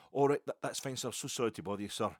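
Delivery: loud bright burst, then falling into politeness; overly polite apology at the door; polite stranger. Retold or imitated. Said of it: "And he went".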